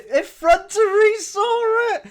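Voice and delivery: high, very loud outburst; slow, high-pitched holler; sudden shout. Pretend. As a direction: burst out yelling mid-thought. Sudden outburst mid-solving.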